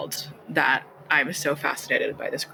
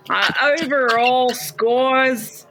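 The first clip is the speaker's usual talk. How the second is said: put-on Australian accent; 6 semitones higher, much slower than usual. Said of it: "Do it in the Australian accent".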